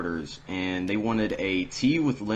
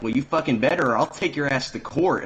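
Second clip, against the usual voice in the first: higher, louder retold threat; mock customer threat; 6 semitones higher, 4 dB louder than usual. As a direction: imitate an outraged customer threatening you.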